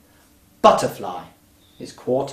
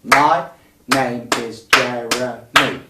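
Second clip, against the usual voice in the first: slow rhythmic speaking; 5 dB louder, much slower than usual. Shown as a demonstration. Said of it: "The second phrase".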